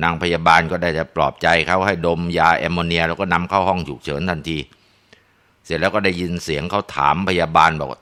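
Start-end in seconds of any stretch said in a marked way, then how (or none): none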